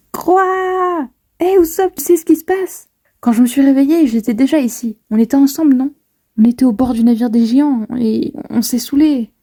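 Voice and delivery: lightly voiced confused Nami; voicing Nami. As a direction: play Nami asking Usopp what happened. Reads Nami and Usopp talk.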